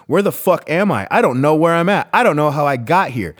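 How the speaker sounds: mildly distraught, rising disbelief; lost and pleading, understated; retold bewilderment. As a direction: relive the panicked questions, lightly pushed. Voicing his past distraught self.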